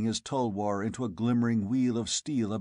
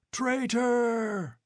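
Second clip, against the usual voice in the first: high, furious roar; 13 semitones higher than usual. A narrator's reading. Tribesmen roaring back at Conan in fury. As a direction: throw it back at him in anger. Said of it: "they roared back wholeheartedly".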